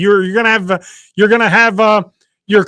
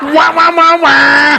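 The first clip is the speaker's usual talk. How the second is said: muffled wah wah talk; 11 semitones higher, 5 dB louder, slower than usual. Pretend. Mocks Lee trying to talk.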